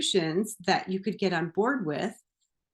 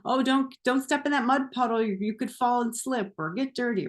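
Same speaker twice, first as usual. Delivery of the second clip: a higher, hurried imitation of an anxious parent; imitating overprotective parents, higher; mock fussy parent; 4 semitones higher than usual. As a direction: lightly mimic a fretting mum. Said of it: "those parents that are like that".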